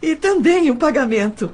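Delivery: brincando, com riso na voz; rindo. Acted. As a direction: solta a frase rindo. Jokes about payment, laughing. (responde ao farmacêutico rindo de leve)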